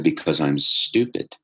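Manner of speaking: drawn-out, deliberate retold answer; slow repeated admission. Student repeating his answer to teacher, slow and deliberate.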